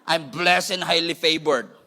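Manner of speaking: proud diva drawl; with attitude. Shown as a demonstration. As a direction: say it with an accent and attitude, slowly. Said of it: "With an accent, with an attitude, with an eyebrow".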